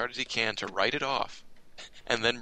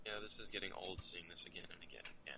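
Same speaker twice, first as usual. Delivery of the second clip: distant, off-mic voice; from another room; 11 dB quieter than usual. Real, not acted. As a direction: sound far from the mic. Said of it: "You, you sound like you're in another room right now".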